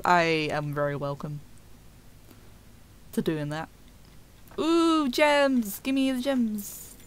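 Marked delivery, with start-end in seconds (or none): 4.6-6.9 gem greed. Real, not acted. Spots gems in game.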